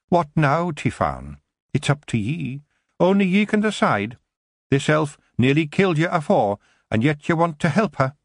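a wee Scottish warrior scoffing at the elf; tiny Scottish Feegle grumbling about elves. A narrator's reading. Kelder challenges Tiffany.

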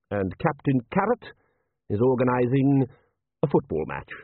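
lightly voiced measured patrician; urbane patrician. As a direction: give a mild ruler's dry report.

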